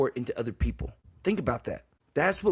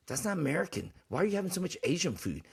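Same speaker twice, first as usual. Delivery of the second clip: mocking complaint; 5 semitones higher, 5 dB quieter, faster than usual. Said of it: "he goes".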